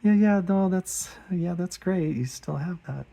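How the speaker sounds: high, embarrassed laughing politeness; awkward laughing. Retold or imitated. Artist embarrassed by his old drawing on the door, laughing awkwardly. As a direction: laugh it off while squirming with embarrassment. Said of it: "And I just kinda".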